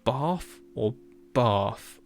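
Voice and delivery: "bath" drawn out with long AH; long-A bath options. Shown as a demonstration. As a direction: slowly offer "bath" as "bahf". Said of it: "are you saying a bath or".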